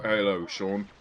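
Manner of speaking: put-on a light British accent greeting; a touch of a British accent, lightly imitated. Imitating how a friend greets Sean, lightly British. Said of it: "he talks like this".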